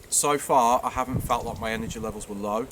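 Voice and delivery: words round a mouthful; talking while eating. Real, not acted. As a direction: mouth full of food. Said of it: "sorry, I'm talking while I'm eating".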